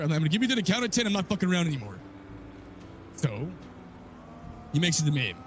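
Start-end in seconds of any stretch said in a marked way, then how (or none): 0.2-2.0 the threat repeated, pitched higher and pushed; retold threat, pitched higher. Threatening the cop who won't listen, higher and more insistent. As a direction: say it again, higher and harder so he listens. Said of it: "he wouldn't listen to me at first".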